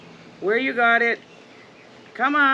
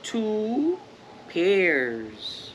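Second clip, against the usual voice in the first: gentle, even storybook reading; reading to children. Acted. Parent reads The Very Hungry Caterpillar to the kids, gently. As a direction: read it like a bedtime picture book.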